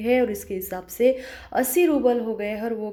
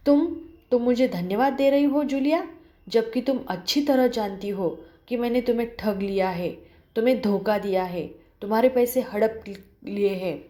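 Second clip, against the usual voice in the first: raised, fast angry outburst that settles toward the end; a moderate angry raised voice, not a full yell; angry near shout. Acted. The employer scolds Julia for thanking him, angrily. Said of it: "ऊंचे स्वर में लगभग चिल्लाते हुए".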